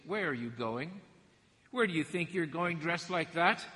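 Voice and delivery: a hint of a nagging mom; lightly voiced mother grilling her kid; mama asking questions. Preacher imitating a mother questioning her teenager, mild mock nagging. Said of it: "Isn't that such a mama thing to say?".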